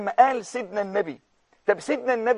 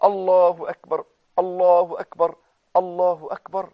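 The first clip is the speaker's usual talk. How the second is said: lower, gentler Allahu akbar; softer takbir; 4 semitones lower than usual. Shown as a demonstration. Preacher gently giving the good news to the viewer. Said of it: "شوف البشرى يا أخي".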